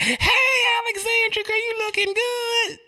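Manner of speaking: very high, fake-sweet squeal; high-pitched, overdone sweet greeting; two-faced mama greeting. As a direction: gush a false hello way up high. Mama's fake greeting to girlfriend.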